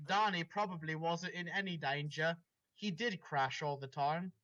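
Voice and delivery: dramatic read-aloud of a fanfic; story reading. Acted. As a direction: narrate it like the opening of a novel. S0 reads the dramatic story part.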